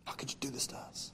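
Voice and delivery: hushed, voiceless grumble; murmuring whisper. Acted. Preacher voicing Pharisees murmuring, whispered. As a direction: mutter it like a resentful Pharisee.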